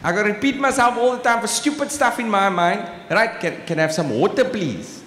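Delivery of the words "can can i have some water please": South African "water", r dropped; own South African accent. Acted. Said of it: "That's how I say it".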